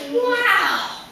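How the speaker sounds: high-pitched, impressed wow; awed tiger. Acted. Tiger admires the cat's catch, high amazed delight. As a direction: marvel like a wide-eyed fan.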